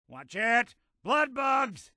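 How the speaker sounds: high-pitched call of alarm; urgent warning. Acted. Companion warns of blood bugs, urgent high call. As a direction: call out the danger to your partner.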